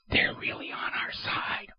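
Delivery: conspiratorial whisper under the breath; sly whispered sarcasm; whispered aside. Acted. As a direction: lean in and whisper it like a secret. Sarcastic aside about US proxies.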